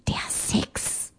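conspiratorial whisper fading to almost nothing; elderly lady winking, whispering to young women. Acted. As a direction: whisper it like a naughty secret. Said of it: "jetzt flüsterte sie und zwinkerte".

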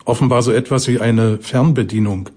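usual speaking voice

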